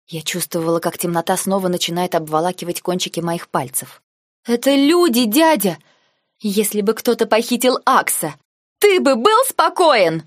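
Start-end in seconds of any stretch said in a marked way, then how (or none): 4.4-10.2 building from high loud cry to a much higher, louder, slow yell; rising until she screams the last question; yelling at uncle. A narrator's reading. Girl yelling at her uncle about the kidnapping, shout. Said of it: "Последние слова я проорала".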